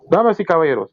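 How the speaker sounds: grand Spanish show host; Spanish announcer. Pretend. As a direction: welcome the crowd in Spanish like an emcee. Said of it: "I'll just do it in Spanish".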